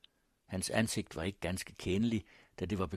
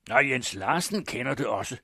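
loud, raised retort; Morten Bruus; 4 semitones higher, 7 dB louder than usual. A narrator's reading. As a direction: shout back an accusation. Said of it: "råbte Brugsen".

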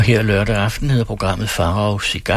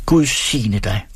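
blessing; slower than usual. Acted. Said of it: "råbte de til hende".

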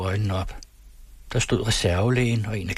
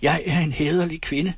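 higher, raging outburst; furious scream; 7 semitones higher than usual. Acted. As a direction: scream it in a rage. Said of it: "skreg rasende".

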